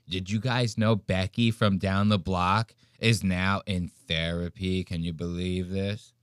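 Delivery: a hint of a tipsy gossiping aunt, hushed then lifting; gossipy wine aunt. Host parodying Ben as a gossiping wine aunt, lightly voiced. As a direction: dish it like a drunk aunt at brunch. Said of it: "You sound like an aunt".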